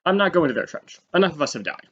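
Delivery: high, put-on voice of a fed-up French soldier; refusing French soldiers. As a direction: flatly refuse like a weary soldier who won't leave his trench. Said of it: "and the French army said".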